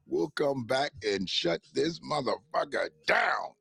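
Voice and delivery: slow, deliberate quote with DOWN drawn out; movie line quote. Retold or imitated. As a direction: lightly act out a movie catchphrase, word by word. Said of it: "I wanna put it as a drop".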